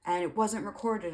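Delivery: a hint of a whiny pastor; mock pastor rant. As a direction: complain like a petulant pastor. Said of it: "And he's like".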